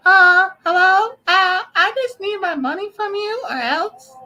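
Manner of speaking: very high slow falsetto; decoy voice. Pretend. Streamer prank-calls the girl in very high decoy falsetto. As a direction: hide your voice behind a squeaky fake. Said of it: "Like decoy voice?".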